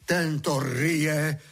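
a slow, cross exclamation; angry. Acted. Master scolding the gardener, angrily. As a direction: point at the gardener in annoyance. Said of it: "zlostně zvolá".

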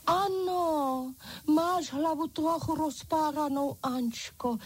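high-pitched doll voice; French doll. A narrator's reading. French doll examines her friend's ripped head, high-pitched voice. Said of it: "Tu vstala francouzská pana".

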